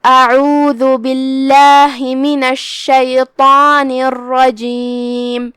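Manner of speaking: drawn-out tajweed recitation of the isti'adha; measured chanted recitation; slow Quran recitation. Shown as a demonstration. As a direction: recite it slowly, giving each madd its length. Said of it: "ہم اپنی آواز دو مد کے برابر لمبی کریں گے".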